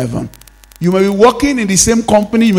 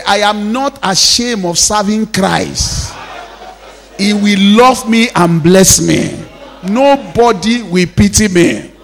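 slow, weighty declaration for repeating; firm, deliberate emphasis; emphatic declaration; 3 semitones higher, 3 dB louder, slower than usual. Shown as a demonstration. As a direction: lead the congregation in saying it emphatically. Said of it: "Say it emphatically".

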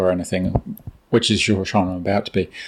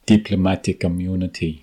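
Arnold Schwarzenegger; 3 semitones lower than usual. Retold or imitated. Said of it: "exactly like Arnold Schwarzenegger would say it".

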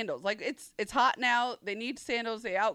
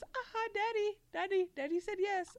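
put-on high, singsong toddler gloat; 10 semitones higher, 4 dB quieter than usual. Mom imitating her son gloating that daddy said yes. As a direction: crow like a kid who won.

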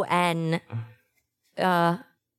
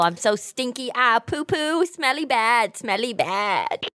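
put-on silly kid voice; 5 semitones higher than usual. Hamming up being stinky.

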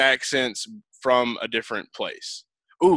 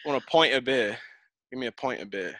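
tentative Irish, trailing softer on the repeat; attempted Irish accent; 5 dB quieter than usual. Shown as a demonstration. Host demonstrates for guest, hesitant Irish accent. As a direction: try out an Irish pub accent.

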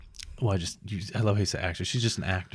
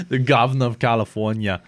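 Arnold impression. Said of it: "that didn't sound like Arnold".

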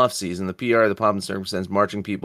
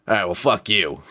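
tossed-off fuck you through a laugh; laughing comeback; 2 semitones lower than usual. Shown as a demonstration. Host demos his go-to comeback, laughing. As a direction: say it laughing, shrugging it off. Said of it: "my traditional comeback".

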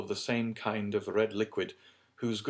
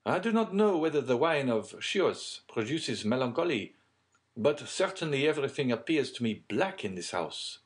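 lightly voiced gentleman, pitched up; emphatic character voice, higher than narration; uneasy gentleman; 7 semitones higher, 4 dB louder than usual. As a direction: confess the gloom with emphasis. Plays Debray on the gloomy house.

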